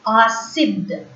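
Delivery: "acid" as ah-SEED, falling at the end; French pronunciation. Shown as a demonstration. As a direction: repeat "acid" as a teacher's model, c like s. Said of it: "this word will be pronounced as".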